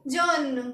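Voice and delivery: जॉन said as French jaune, long o; French pronunciation of जॉन. Shown as a demonstration. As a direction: say जॉन with a rounded vowel, clear final n. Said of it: "yellow को हम बोलेंगे".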